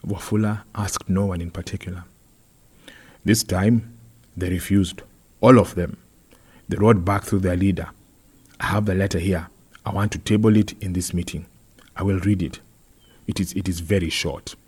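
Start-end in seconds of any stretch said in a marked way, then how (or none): 3.2-14.6 lightly voiced complaining councillor; a hint of an aggrieved official; earnest councillor. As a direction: report the grievance to the meeting, with emphasis. Voices councillor Wafula reporting.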